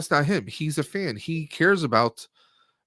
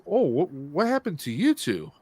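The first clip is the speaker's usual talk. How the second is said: imitating cameo voice; 3 semitones higher than usual. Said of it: "The person says".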